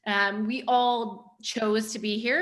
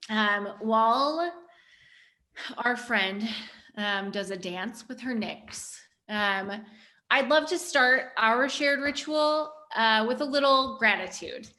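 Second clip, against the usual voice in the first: guided ritual; slower than usual. Acted.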